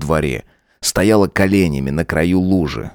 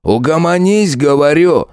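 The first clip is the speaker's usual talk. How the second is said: louder, higher barked command; barked order; 11 semitones higher, 5 dB louder than usual. Acted. Lieutenant snapping at Genchik, louder bark. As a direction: bark it at him to shut him up. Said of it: "рявкнул Сайгар".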